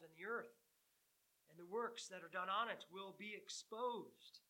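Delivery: scripture reading. Acted. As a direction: read the warning with building weight. Reads scripture aloud.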